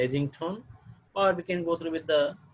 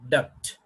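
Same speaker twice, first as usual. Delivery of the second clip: "duct" hit hard, set apart; forceful, isolated "duct"; stressed syllable; 3 semitones lower than usual. Shown as a demonstration. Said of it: "the stress has going to shift".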